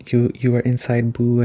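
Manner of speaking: usual speaking voice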